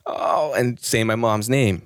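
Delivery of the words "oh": mock moan. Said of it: "this is my reenactment here".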